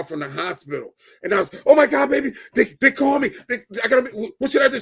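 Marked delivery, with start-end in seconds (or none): 1.7-4.8 high, loud panicky blurting; flustered, stumbling cry for advice; retold panic. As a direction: act out a flustered phone panic. Retold panic over missed hospital call.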